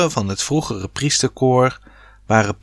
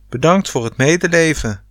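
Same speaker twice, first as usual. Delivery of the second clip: bitter; 6 semitones higher than usual. Acted. Boy to his sleeping father, bitter and sarcastic. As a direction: throw the thanks back sarcastically. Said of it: "zei Rob bitter".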